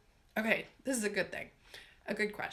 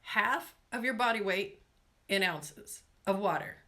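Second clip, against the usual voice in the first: measured, phrase by phrase; careful, spaced-out instruction; slowly and deliberately. Shown as a demonstration. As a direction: spell it out with pauses between chunks. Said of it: "let me say this slowly".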